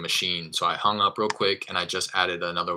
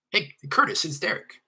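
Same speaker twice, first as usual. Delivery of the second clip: pitched-up hello to a supposed acquaintance; familiar greeting; 11 semitones higher than usual. Shown as a demonstration. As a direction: call him like you know him well. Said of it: "say it that way to breed familiarity".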